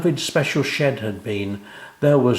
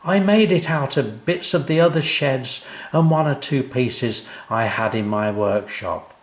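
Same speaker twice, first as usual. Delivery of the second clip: proud; 4 semitones higher than usual. Acted. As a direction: present the gift with pride. O'Grady explains his work.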